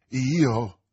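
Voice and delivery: sussulto di chi pesta una biscia; un "io?" spiazzato, con forza; allarmato stupore. A narrator's reading. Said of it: "con il tono di chi s'accorge di camminare sopra una biscia". (stupore allarmato)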